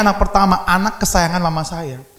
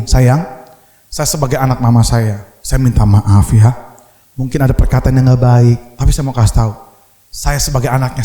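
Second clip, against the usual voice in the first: tender apology; 5 semitones lower than usual. Retold or imitated. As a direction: coax her gently, like soothing a hurt wife. Husband comforting wife tenderly. (suami membujuk istrinya dengan lembut dan pelan)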